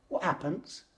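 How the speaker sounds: soft, half-whispered question; hushed whisper. Retold or imitated. Younger self whispers to the dreamer, hushed. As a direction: breathe the question into his ear. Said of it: "He whispers in my ear".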